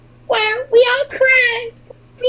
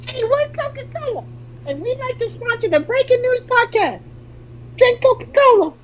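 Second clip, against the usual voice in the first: CEO voice. Acted. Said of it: "Thank you, C E O of Coca-Cola".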